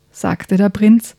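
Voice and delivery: lively bedtime story narration, hushed at times; reading to children. A narrator's reading. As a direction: tell it like a bedtime story for kids. Reads a children's book aloud. (Kindergeschichte vorlesen)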